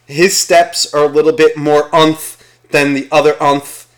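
lightly voiced priest giving instructions; imagined priest. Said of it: "he's sitting there rehearsing himself".

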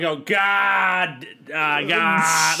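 GOD with a long stretched A; "God" held open on a long "aah"; drawn-out A. Retold or imitated. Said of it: "I extend the A".

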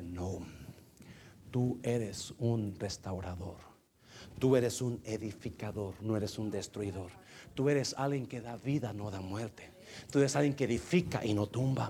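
low-pitched, measured divine voice; God's corrective answer. Retold or imitated. (voz de Dios, grave y firme)

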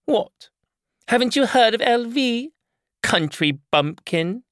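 woman mocks the narrator, loud and high; spitting contempt. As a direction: sneer at the country bumpkin. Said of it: "She spat her words at me".

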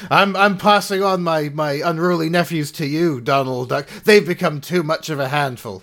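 put-on light Scottish accent, Scrooge-style; a hint of a Scottish uncle. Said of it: "Do you like my Scottish accent".

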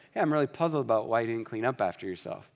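easygoing, no edge at all; gentle. Shown as a demonstration. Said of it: "Same words, very different meaning".

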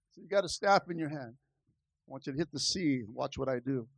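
calm low divine instruction, hurried; God's voice. Acted. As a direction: drop low and quiet as God speaking. God answers Moses.

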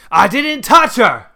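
loud, high, drawn-out protest; indignant holler. A narrator's reading. Grandfather denying it to his son, hollering indignantly. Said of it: "Grandpa hollered".

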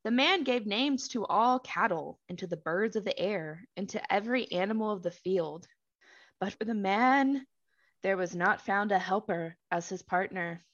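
measured, deliberate Bible narration; scripture reading. A narrator's reading. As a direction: read the verse out with spaced phrases.

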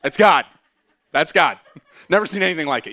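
laughing awe. Pretend. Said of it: "They're like".

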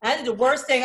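ordinary delivery

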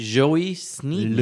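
slow "Sneeden" with a long ee; suggested pronunciation. Shown as a demonstration. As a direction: say "Sneeden" as SNEE-den, drawn out. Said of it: "I would say J".

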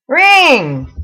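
put-on a loud, clipped name in an Asian accent; thick Asian accent. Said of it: "thickest Asian accent I have ever heard".

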